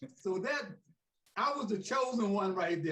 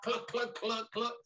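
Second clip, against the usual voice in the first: chicken clucks; 3 semitones higher than usual. Retold or imitated. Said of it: "called me chicken".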